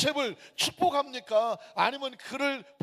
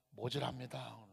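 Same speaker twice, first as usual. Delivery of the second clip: official's verdict; 10 semitones lower, 11 dB quieter than usual. Retold or imitated. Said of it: "하신 얘기가".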